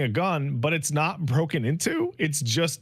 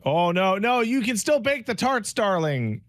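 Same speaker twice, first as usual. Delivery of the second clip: mock sweet Chloe; 9 semitones higher than usual. Voicing Chloe soothing the player.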